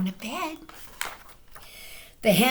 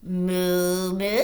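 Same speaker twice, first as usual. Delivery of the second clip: louder mooing cow; 4 dB louder than usual. Acted. Reading to children, a loud cow moo. Reading farm animal noises.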